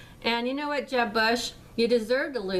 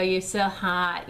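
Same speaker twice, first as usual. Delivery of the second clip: mock creepy compliment; slower than usual. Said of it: "you stalkers that sit there and go".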